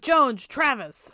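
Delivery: drawn-out, high mock call. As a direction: imitate summoning roommates through the house. Retold calling out for roommates.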